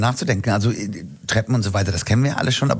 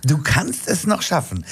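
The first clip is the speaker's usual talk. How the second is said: lightly imitated coaching, slow and high; higher, unhurried mock pep talk; motivating fitness watch; 5 semitones higher, slower than usual. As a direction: egg them on, stretching the words. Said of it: "der motiviert mich und sagt".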